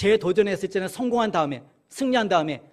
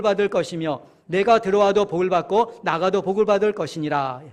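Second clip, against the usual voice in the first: scripture reading aloud. Acted. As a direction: lead the congregation through the verses, deliberately. Reads scripture aloud with congregation. (또박또박 느리게 성경 봉독)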